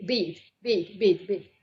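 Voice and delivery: "beat" in the light Kiwi way, close to "beat"; copying Kiwi vowel. Shown as a demonstration. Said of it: "sort of copying it unconsciously".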